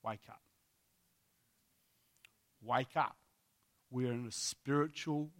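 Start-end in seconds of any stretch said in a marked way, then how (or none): 0.0-0.4 soft, low pastoral plea; hushed tender appeal; loving, compassionate. Real, not acted. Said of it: "every piece of love I can possibly muster". 2.6-3.2 softer, lower pastoral appeal; quiet tender plea; loving, compassionate. Real, not acted. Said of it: "as a compassionate pastor".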